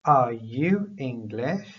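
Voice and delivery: slow, clear teacher model question; rising question, spelled out slowly; slow model sentence. Shown as a demonstration. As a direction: say it slowly for learners to repeat. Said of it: "just repeat after me".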